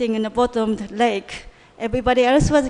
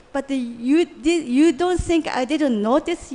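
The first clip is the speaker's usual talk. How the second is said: mildly acted accusation, slow and emphatic; a touch of anger, dragging out the key words; Duryodhana's retold shouting; 2 semitones higher, slower than usual. Dying warrior blames Krishna for his scheme, mildly angry retelling. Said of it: "started to shout at Krishna".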